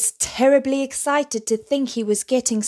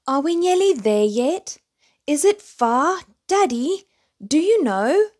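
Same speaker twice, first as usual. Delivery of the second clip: high, louder eager questions; impatient cub; 5 semitones higher, 4 dB louder than usual. A narrator's reading. Little bear asking his daddy if they are nearly there, high and eager. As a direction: pester Daddy like an excited toddler.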